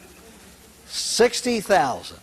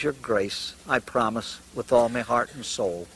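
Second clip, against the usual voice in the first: mock sob; 6 semitones lower, 4 dB quieter than usual. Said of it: "the old man started to sob".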